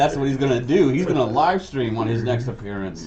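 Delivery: high, loud words through laughter; laughing. Real, not acted. Friend joking about a villain's livestream, laughing. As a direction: crack up while talking.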